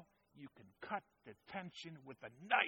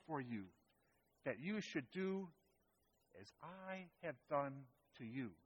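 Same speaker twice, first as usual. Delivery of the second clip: serious tone; 3 dB quieter than usual. Acted. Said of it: "with a very serious tone".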